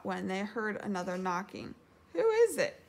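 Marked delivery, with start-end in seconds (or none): 2.1-2.8 high, loud call. A narrator's reading. Pooh calling to whoever knocks, calling out. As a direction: project it toward the door. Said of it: "called Pooh".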